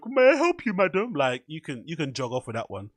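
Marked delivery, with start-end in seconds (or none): 0.1-1.1 higher-pitched mock butler. Mocking how a butler would greet a customer, butler voice. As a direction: put on a servile butler voice. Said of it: "like some fucking butler".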